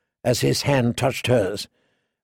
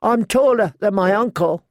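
put-on higher, eager small-boy voice; childish, higher-pitched royal boy; little princeling; 7 semitones higher than usual. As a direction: play a nine-year-old prince piping up. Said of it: "who was all of nine".

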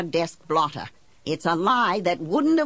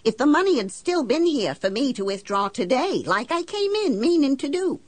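higher-pitched, indignant questioning; indignant challenge; 5 semitones higher than usual. Acted. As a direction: confront the banker with pointed what-ifs. Confronts banker in acted quarrel.

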